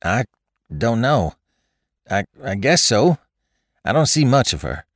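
high, halting, stammered reply; choking voice. A narrator's reading. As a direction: stumble over "I" as if choking up. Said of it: "replied in a choking voice".

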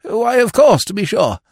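high, loud dawning realisation; impressed, delighted. A narrator's reading. Lord taking up the bright suggestion, impressed. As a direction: exclaim it as if enlightened. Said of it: "obviously impressed by this bright suggestion".

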